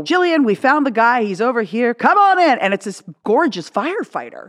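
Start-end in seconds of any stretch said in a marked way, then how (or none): 0.0-2.6 imitating Regis. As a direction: present the surprise guest with a flourish.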